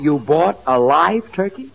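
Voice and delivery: incredulous. Acted. George stunned by live turkey.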